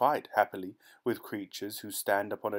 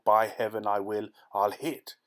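calling aloud; 4 dB louder than usual. Acted. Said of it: "he called aloud".

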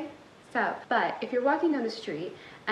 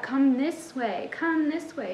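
lightly acted coaxing friend, slow first call; toxic friend; 3 semitones higher, slower than usual. Toxic friend luring the listener off track, lightly acted coaxing. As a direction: coax like a bad influence. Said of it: "like a toxic friend that comes in".

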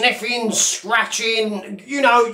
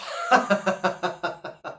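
drawn-out staccato cackle; mocking laugh; 3 semitones lower, 6 dB quieter than usual. Real, not acted. Taunting the Sheriff, mocking laugh. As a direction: run of quick, mocking ha-ha-ha.

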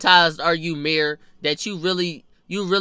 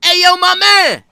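loud, high-pitched holler; calling out; 11 semitones higher, 11 dB louder than usual. Acted. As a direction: shout to get a man's attention. Calling out to someone.

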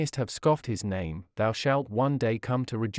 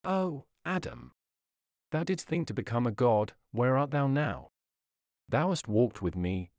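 soft plaintive call. Acted. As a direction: mourn him gently, softly. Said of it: "with a soft, sorrowful, and plaintive voice".

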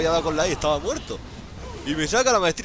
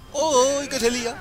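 high, loud gamer yelp as the fight kicks off; excited shout; 10 semitones higher, 4 dB louder, slower than usual. Real, not acted. Streamer reacting as a teamfight breaks out, excited high shout. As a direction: jump in much higher and louder.

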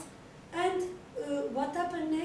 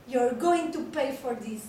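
mad mouse; 6 dB louder than usual. Acted. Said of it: "a big mad mouse".

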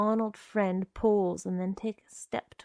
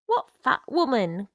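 sharp startled cry; cried out; 3 semitones higher, 7 dB louder than usual. A narrator's reading. Connie cries out at Arnold's friend. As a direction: Connie demanding to know, cried out. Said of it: "Connie cried".

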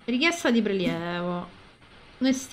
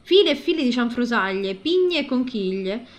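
story narration. Acted. Reads the game's story aloud.

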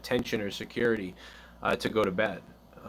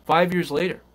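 bedtime story reading; 2 semitones higher than usual. Acted. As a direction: tell it like a bedtime tale to the kids. Reads an improvised bedtime story.

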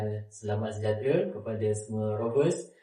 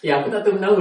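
imitating friend; 7 semitones higher, 8 dB louder, faster than usual. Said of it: "dia cakap".

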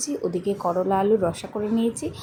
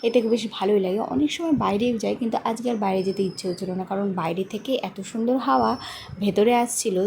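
talking with a toothbrush in mouth; while brushing teeth. Real, not acted. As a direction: speak around a toothbrush. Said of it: "এখানে আমি brush করছি".

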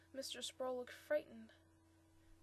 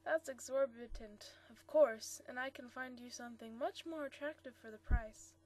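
pleading; 5 dB louder than usual. Acted. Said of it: "added with a manner of pleading".

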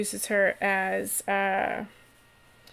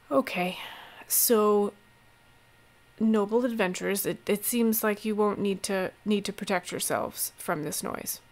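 put upon; 4 dB quieter than usual. Acted. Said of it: "he seems very put upon".

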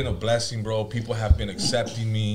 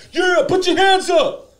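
slow, much higher, louder hype call; hype man; 9 dB louder, slower than usual. Retold or imitated. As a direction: drag it out like a hype man working the crowd.

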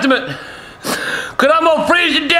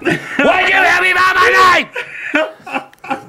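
drawn-out laughing plea; 3 semitones higher, much slower than usual. Acted. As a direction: drag it out while laughing. Stretched out, laughing repeat.

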